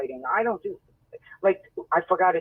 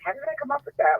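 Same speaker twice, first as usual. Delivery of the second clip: amazed at herself; 9 semitones higher, faster than usual. Retold or imitated. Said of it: "I was shocking myself".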